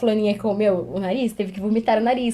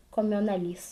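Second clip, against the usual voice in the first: put-on child voice; 2 semitones lower, 8 dB quieter than usual. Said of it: "olhou e falou assim".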